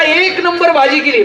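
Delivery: imitating an eager compliment, slowly; mock praise. Husband's praise replayed for the joke.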